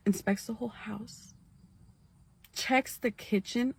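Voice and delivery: hushed suspenseful whisper. Real, not acted. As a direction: breathe it out for suspense.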